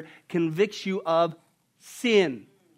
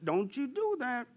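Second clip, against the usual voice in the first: loud, higher scolding; emphatic warning; 4 semitones higher, 6 dB louder than usual. Retold or imitated. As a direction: wag the finger hard. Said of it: "he says, very emphatically".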